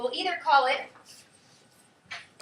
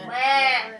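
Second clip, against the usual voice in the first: "Plan" punched louder; stressed syllable; 5 dB louder than usual. Shown as a demonstration. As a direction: hit "Plan" as the accented part. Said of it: "Where's the accent?".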